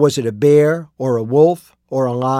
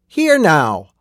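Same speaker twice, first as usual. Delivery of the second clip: a louder, mildly squawked protest; indignant squawk; 3 semitones higher, 4 dB louder than usual. A narrator's reading. Miner protesting as the constable grabs him, squawking. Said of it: "Ollie Ang squawked".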